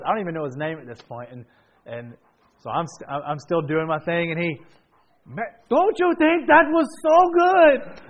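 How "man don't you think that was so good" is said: high, loud, slow mock Hispanic accent; preacher imitating a classmate with a mock Hispanic accent. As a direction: ham up a Hispanic accent for the crowd. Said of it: "I'm going to a Hispanic accent".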